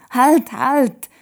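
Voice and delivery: sharp high call to stop the chatter; calling halt. A narrator's reading. Toda stopping everyone talking at once, loud call. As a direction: cut them off loudly, stop!. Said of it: "sagt sie".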